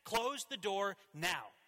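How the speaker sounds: put-on slow, firm, insistent order to a toddler; father ordering his two-year-old son to shut the door, urgently; urgent command. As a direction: lay down the law, word by word. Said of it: "with a sense of urgency in my voice".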